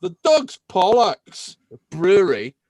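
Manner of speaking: a slow, hammed-up Scottish accent; Scottish accent attempt. Shown as a demonstration. Host introducing a Scottish brewery, trying a Scottish accent. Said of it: "I'm gonna try and do this in a Scottish accent".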